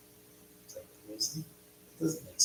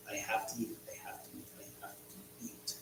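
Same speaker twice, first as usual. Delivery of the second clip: fading to a whisper; 3 semitones lower, 17 dB quieter than usual. Real, not acted. Hungry streamer muttering to himself, fading to a whisper. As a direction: let "I have to eat" die away into breath.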